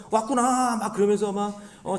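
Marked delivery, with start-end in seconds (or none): 0.1-0.8 high, drawn-out shaman call; mock a shaman announcing a spirit's arrival; 무당 mimicry. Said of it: "생쇼를 하면서". (무당 흉내 내듯 높고 길게)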